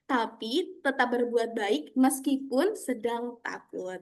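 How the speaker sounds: story narration. A narrator's reading. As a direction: read to children, calm and clear. (suara mendongeng yang lembut)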